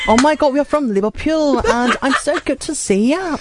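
high, fast gushing fan voice; excited fan girl. Retold or imitated. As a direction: gush like an excited Liverpool girl.

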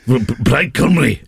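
put-on Welsh for the co-host to copy; Welsh accent. Shown as a demonstration. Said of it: "the international accent of flags".

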